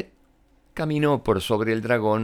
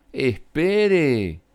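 shout; 4 semitones higher, 3 dB louder than usual. Acted. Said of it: "gritó Elizabeth".

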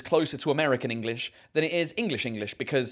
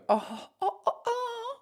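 laughing; 6 dB quieter, slower than usual. Real, not acted. Laughing to the point of crying.

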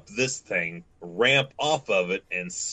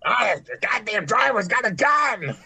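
high, laughing mock panic yell; panicked shout; 4 dB louder than usual. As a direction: yell the alarm through laughter. Acted panic shout in scene.

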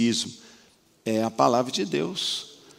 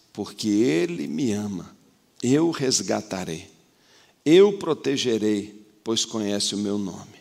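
changed tone; 5 semitones lower than usual. Acted. God answering the believer, in a lowered tender voice. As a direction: speak it gently as God answering. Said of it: "Agora muda o tom, muda o tom".

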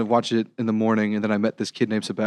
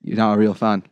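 put-on mixed British accents. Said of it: "four different accents at once".

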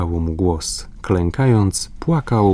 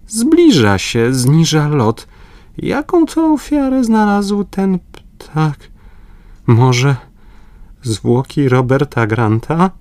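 much higher, tense and alarmed; 8 semitones higher, 3 dB louder than usual. A narrator's reading. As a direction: voice climbing in dread. Paganel alarmed by the descending condor. (wysoko, z niepokojem)

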